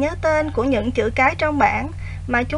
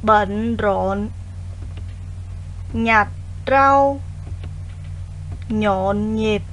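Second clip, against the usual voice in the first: dictating; 4 semitones lower, much slower than usual. Shown as a demonstration. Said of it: "đọc lại một lần nữa các từ đó với cô".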